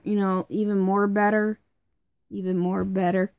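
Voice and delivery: congested, blocked nose voice; stuffed-up nose. Real, not acted. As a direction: talk through a stuffed-up nose. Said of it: "I sound awful 'cause I'm all stuffed up".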